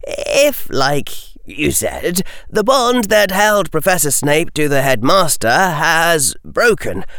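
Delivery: put-on a confused, apologetic boy; young Harry voice. Harry asks.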